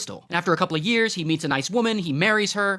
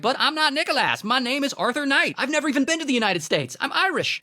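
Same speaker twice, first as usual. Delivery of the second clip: lightly mocked fake English accent, higher; 8 semitones higher than usual. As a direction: imitate him faking an English accent, pitched up. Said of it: "this fake English accent".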